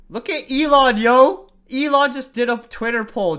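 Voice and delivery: loud, high excited outburst. Real, not acted. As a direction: call out the news, thrilled. Reacts to Elon's Twitter poll.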